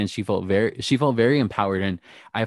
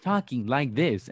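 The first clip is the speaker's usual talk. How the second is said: a hint of stilted robot talk; robotic delivery; 3 semitones higher, slower than usual. Host imitating a robotic contestant, lightly stilted. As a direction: imitate a stiff, robotic performer. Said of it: "Denali is robotic".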